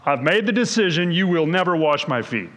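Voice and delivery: a mild, steady command; firm command. Retold or imitated. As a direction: lay it down as a decision, no debate. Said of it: "it sounds to me like a command".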